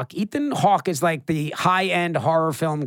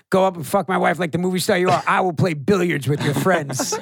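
quoting the character. Retold or imitated. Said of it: "You go like".

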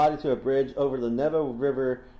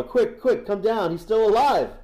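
high, loud urgent call; yelling out; 8 semitones higher, 6 dB louder than usual. Acted. Assassin calling his friend down to help, yelling out. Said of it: "yelling out to Pushkashek".

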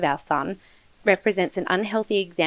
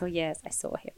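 put-on Mexican accent; 11 dB quieter than usual. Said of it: "saying it in a Mexican accent".

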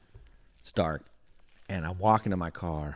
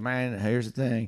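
higher, lightly Southern stranger; Southern accent; 4 semitones higher than usual. Retold or imitated. Stranger stalls when offered gas, Southern accent. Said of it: "That dude's Southern accent".

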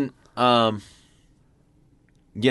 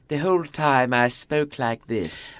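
posh elocution voice; slower than usual. Pretend. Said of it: "George Bush came out and he was like".

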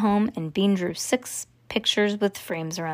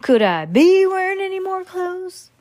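higher, louder Joey from Friends, stressing "more"; Joey impression; 10 semitones higher, 5 dB louder than usual. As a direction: ham up Joey's famous line. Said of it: "she looks like Joey".

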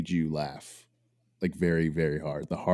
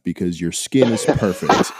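mock exasperation; 5 dB louder than usual. Real, not acted. Hammed-up compliment before a mock demand.

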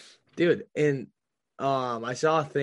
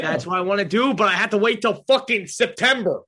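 raised, frustrated outburst; mad; 6 semitones higher, 4 dB louder than usual. Real, not acted. Bears fan complaining about waiting for the season, mad. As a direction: let the frustration climb higher and louder. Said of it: "I'm so mad".

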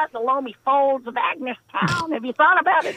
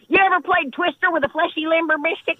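laughing; 4 semitones higher than usual. Acted. Laughing flirt build.

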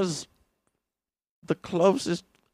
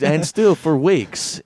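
slow, stretched and louder; drawn-out mock; 4 semitones higher, 5 dB louder, much slower than usual. Friend drags the phrase out, mocking slowly. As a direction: drag every word out.

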